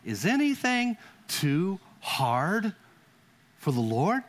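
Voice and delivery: slow, drawn-out voice of God asking; God's question. Acted. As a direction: ask it slowly as God speaking to Sarah. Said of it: "He said".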